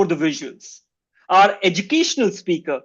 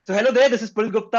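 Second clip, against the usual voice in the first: serious voice; 3 semitones higher, much faster than usual. Acted. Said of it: "more serious voice".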